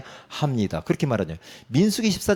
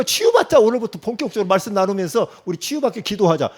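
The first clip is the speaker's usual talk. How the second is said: sarcastic echo; 5 semitones higher than usual. Acted. Sarcastic repetition, high.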